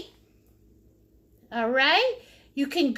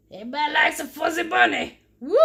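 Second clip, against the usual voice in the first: excited cheer; much faster than usual. Real, not acted. Painter cheering her fuzzy bunny, excited shout. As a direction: rush it out and whoop.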